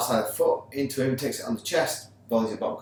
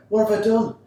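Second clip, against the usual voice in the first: high, louder indignant back-and-forth; two heated voices trading lines; heated exchange; 10 semitones higher, 6 dB louder than usual. Retold or imitated. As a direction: argue it hotly, pitch way up. Heated quarrel with the referee.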